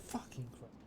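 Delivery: voiceless, horrified murmur; appalled whisper. Real, not acted. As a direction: whisper it under your breath in shock. Appalled reaction to teacher's abuse story.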